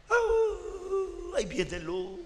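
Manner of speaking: high startled cry then a small scared voice; a hint of a scared little sheep; frightened sheep. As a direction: sheep panicking at the wolf. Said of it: "se asustan".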